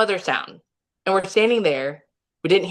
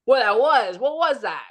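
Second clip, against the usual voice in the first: imitating a rattled son, higher pitched; retold nervous disbelief, voice raised in pitch; 5 semitones higher than usual. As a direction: mimic someone mildly spooked. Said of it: "because he's so nervous".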